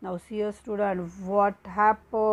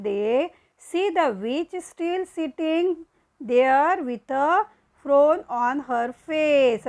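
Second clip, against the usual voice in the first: slow play reading; much slower than usual. Acted. Reads the play aloud slowly.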